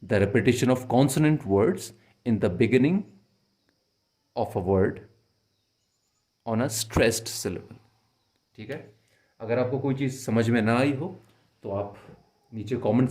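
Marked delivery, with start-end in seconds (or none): 0.1-7.8 very slow, definition read out for notes; slow and clear like dictating; slow dictation. Shown as a demonstration. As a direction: dictate each word slowly. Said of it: "तो alliteration".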